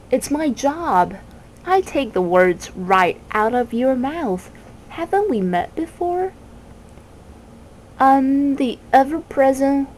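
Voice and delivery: a touch of a sly, pleased bird; the Word Snatcher boasting to Milo; boastful bird. Acted. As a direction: show off, then turn on the bug.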